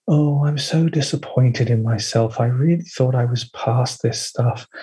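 slow, sighing disappointment; passive-aggressive disappointment. Retold or imitated. Spiritual person sighing at themselves, passive-aggressive. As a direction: sound wounded, not angry. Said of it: "passive-aggressive towards yourself".

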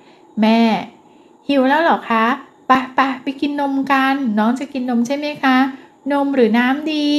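put-on sweet mother asking her baby; gentle mother to toddler. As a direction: coax a hungry toddler kindly. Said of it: "หากเราปรับใหม่ จะทำให้ลูกสุขใจ".

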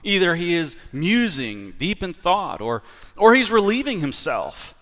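high, sing-song mockery; mocking taunt. Elijah taunting the prophets of Baal, mocking. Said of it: "Elijah mocked them".

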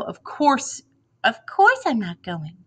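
high, drawn-out imitation of her denial; mocking mimicry. A narrator's reading. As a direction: mimic her fake scoff. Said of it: "He begins to mimic me".

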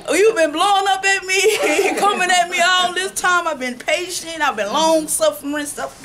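half-joking protest that she's been patient; laughing indignant retort. Retold or imitated. Retelling her comeback to the person who blew up at her, laughing and indignant. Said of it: "I'm like".

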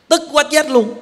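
a touch of hammed-up fury; mock fury. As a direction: act out rage choking you. Anger that kills, acted.

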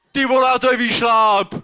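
high, strained cry of dismay; acted outburst on a steep trail; exasperated shout. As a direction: holler it like a hiker beaten by the climb. Hiker exclaiming at steep climb.

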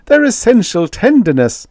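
high, loud protest; crying out. A narrator's reading. Ambassador defends the youths to the minister, crying out high. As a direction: exclaim it high in earnest defence. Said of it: "cried Magnan".

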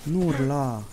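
high, stretched-out repeated cry; drawn-out yelling. Real, not acted. Player telling a howling zombie not to yell, wailing. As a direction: wail the command over and over.

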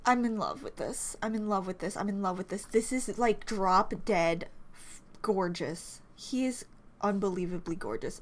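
low, soft, smitten murmur; hushed adoration; awestruck. Real, not acted. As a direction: say it low and quietly, in awe. Awestruck by the idol's picture.

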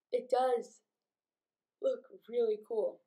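words stretched through a yawn. Real, not acted. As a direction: talk through a yawn, just woke up. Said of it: "Excuse my yawning".

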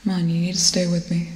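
loud, pressing call to stay awake; urgent plea. Acted. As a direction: push him to stay conscious. Urging unconscious crewmate to wake.

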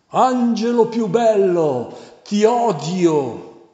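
high, loud demonic shriek of hatred; demon screaming. A narrator's reading. Devil screaming his hatred at the exorcist priest, high shriek. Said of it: "lui urla".

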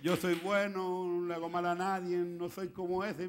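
slow, drawn-out chant on one note; mock a smug Pharisee in a monotone; even, stretched-out self-praise; self-righteous Pharisee. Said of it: "los fariseos".

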